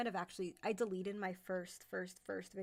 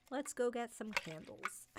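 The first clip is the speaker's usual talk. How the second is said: higher, slow put-on girly suggestion; playful girlfriend quote; 4 semitones higher than usual. To girlfriends on a day out, slow playful high voice. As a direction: draw it out, pitched up, playfully.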